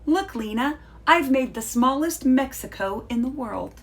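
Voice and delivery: high, bright proud announcement. Acted. Sophie showing her sister the sandbox, proud and high. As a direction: show off the little creation. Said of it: "Sophie said proudly".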